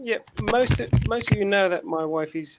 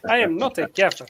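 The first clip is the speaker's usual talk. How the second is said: lightly imitated African accent; mock African accent. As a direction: put on a mild African accent. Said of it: "That's what I, I used to say".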